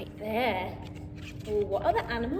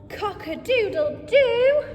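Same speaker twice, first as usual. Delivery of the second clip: loud, higher cock-a-doodle-doo crowed like a rooster; 5 semitones higher, 5 dB louder than usual. Acted. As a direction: crow it out for the kids. Reading farm book, rooster speaks.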